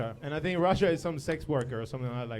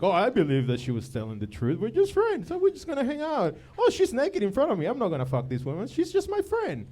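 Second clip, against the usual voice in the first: mocking naive guy; 5 semitones higher than usual. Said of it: "he's like".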